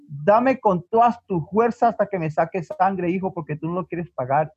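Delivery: understated, resolute motherly order; firm command. Acted. Mother offers her back to her son, acted firm command. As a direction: tell him firmly, without raising the voice.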